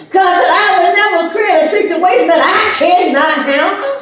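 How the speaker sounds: high, loud, ringing preacher's cry; full-force preaching. Acted. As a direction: preach it out, rising and pounding. Preaching climax.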